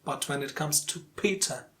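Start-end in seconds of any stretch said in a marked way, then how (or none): 1.1-1.6 Peter with strong PE, weak ending; first-syllable stress. Shown as a demonstration. Teacher gives a contrasting example, Peter stressed on the first syllable. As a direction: say Peter as PEE-tuh. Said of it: "the first syllable is the stressed syllable".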